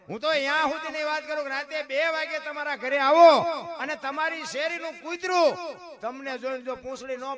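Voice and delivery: very loud, high preaching shout; fiery preaching. Acted. Preacher telling listeners about the street dog, shouting. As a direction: drive it home to the whole crowd.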